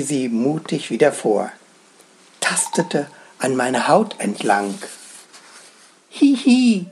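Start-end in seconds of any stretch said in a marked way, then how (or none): 6.1-6.9 high, giggly little slug voice; giggling slug. A narrator's reading. Slug giggles at the narrator's bare foot, high and giggly. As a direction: giggle it like a tiny shy creature. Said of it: "kicherte sie".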